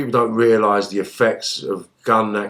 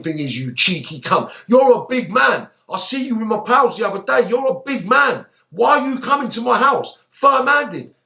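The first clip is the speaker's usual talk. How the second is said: retold angry threat; 11 semitones higher than usual. Retold armed confrontation at house.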